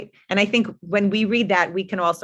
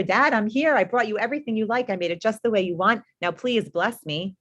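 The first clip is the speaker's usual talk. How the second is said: higher, eager voice for Esav; excited Esav; 4 semitones higher than usual. Acted. Esav bursts in to his father with food, eager and higher. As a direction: play the son eager for his father's blessing. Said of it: "all excited to get the bracha".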